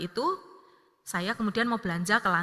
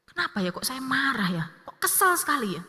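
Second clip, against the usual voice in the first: higher-pitched retold self-questioning; puzzled musing; 5 semitones higher than usual. Mother asking herself why she is cross, musing. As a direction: wonder aloud at your own annoyance. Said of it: "Saya sambil mikir gitu".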